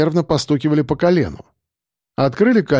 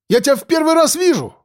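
high indignant protest; 13 semitones higher, faster than usual. A narrator's reading. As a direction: deny it, voice up high. Suspect protests loudly. (возмущённо, высоким голосом)

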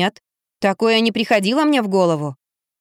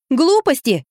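sharp, higher flash of temper; flared up; 5 semitones higher, slower than usual. A narrator's reading. Детектив вспыхивает в ответ мужику, резко и высоко. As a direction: snap it out in a flash of irritation. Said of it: "вспылила я".

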